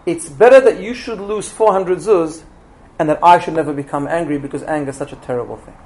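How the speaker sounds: measured, unhurried retold reply; very calm. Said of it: "in a very, very calm way".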